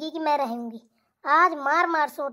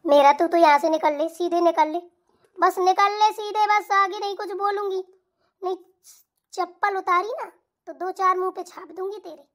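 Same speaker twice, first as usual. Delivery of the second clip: scolding mother-in-law. Acted. Mother-in-law berates her son for pressing his wife's feet. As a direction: tear into her in bursts like a fierce mother-in-law.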